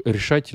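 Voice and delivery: решать with the stress on its final A. Shown as a demonstration. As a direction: lean on the A in решать. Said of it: "il est sur le A".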